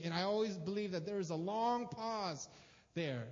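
ordinary talk, nothing marked

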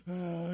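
mock inconsolable wail; half-hearted imitation of a child's cry; imitated crying. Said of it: "he cries".

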